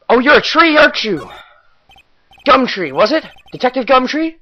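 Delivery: mock questioning. Teasing the detective's name.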